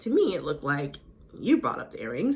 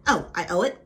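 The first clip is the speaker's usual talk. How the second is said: baiting. Retold or imitated. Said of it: "baiting her".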